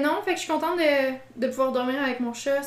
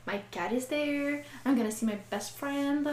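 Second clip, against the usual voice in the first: dreamy delight; 2 semitones higher, slower than usual. Retold or imitated. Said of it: "j'étais comme".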